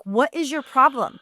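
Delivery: mock irate producer; retold confrontation. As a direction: imitate someone getting in your face.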